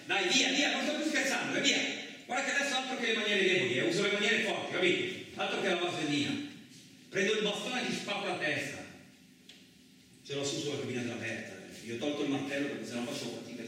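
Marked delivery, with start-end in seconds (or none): 0.1-8.8 loud, higher, fast threatening shouts; angry threats. Acted. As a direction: chase him off, losing patience. Chasing someone off, threatening.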